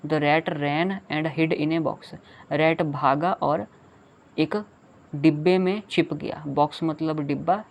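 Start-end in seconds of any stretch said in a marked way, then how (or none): 0.1-2.2 very slow reading. Shown as a demonstration. Reading poem line to children.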